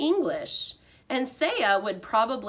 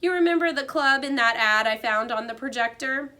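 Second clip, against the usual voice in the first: cheerful janitor; 4 semitones higher, 4 dB louder than usual. A narrator's reading. Aldo voiced.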